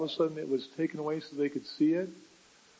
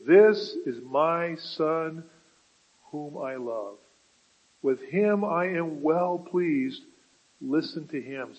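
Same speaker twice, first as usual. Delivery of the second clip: voice of God; slower than usual. Acted. God speaking from the cloud to Peter, slow booming proclamation.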